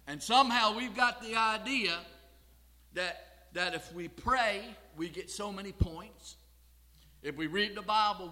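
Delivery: punched list, each opening hit loud; emphatic preaching. Real, not acted. Preacher listing supposed ways to earn points, emphatic preaching. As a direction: hammer each condition, then pause.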